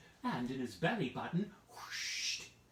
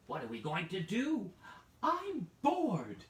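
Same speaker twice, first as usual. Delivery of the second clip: put-on bored old lady whine; 6 semitones higher, 3 dB louder than usual. Old lady whining to her husband about boredom. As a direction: whine rising up high on bored.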